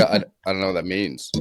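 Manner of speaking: a lightly voiced clueless dude; playing dumb dude. Boyfriend told partner needs validation, playing the clueless dude. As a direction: shrug it off like you just don't get it. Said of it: "a dumb dude from a redneck state".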